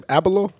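"Abelo" in three syllables, as a question; tentative pronunciation. Shown as a demonstration. Host asking how the last name goes, "Abelo" in three tentative syllables. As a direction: try "Abelo" with a vowel between b and l. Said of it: "how you pronounce the last name?".

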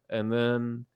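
ordinary talk

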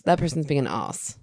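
"os" said with no R; "being an os" British style. Shown as a demonstration. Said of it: "kind of an R sound in there".

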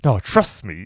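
lightly hammed-up old movie banter; big, exaggerated mock acting; over-the-top camp. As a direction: play it camp, swinging up in pitch. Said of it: "very over the top camp".

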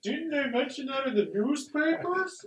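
high, slow, innocent busybody voice; sneaky crowd gossip. Pretend. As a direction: ask it like a nosy onlooker. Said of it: "sneak into the middle of the crowd and be like".

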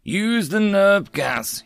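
high, slow panicked cry; cried out. Acted. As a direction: call out for help in panic. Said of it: "he cried out".

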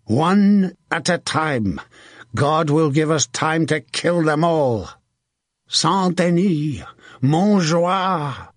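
high, slow rallying cry; rally the men with drawn-out shouts; commander's stretched war cry; shouting. A narrator's reading. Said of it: "shouted as he led the wedge".

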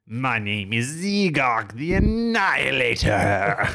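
slow, booming alien announcer; robot voice. Acted. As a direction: proclaim it like a menacing alien overlord. Alien villain announces himself.

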